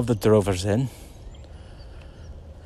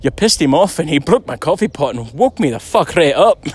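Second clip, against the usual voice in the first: mock indignant shout; 4 semitones higher than usual. James blaming them for the broken coffee pot, mock angry shout. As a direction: shout the complaint like he's playing angry. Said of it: "And James, he goes".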